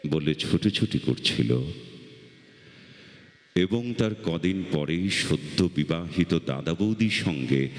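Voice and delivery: slow, measured recital with long pauses; poem recitation. Acted. Reciter recalls childhood smoke for festival audience, measured poem recitation. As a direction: recite it as a memory, pausing after each phrase.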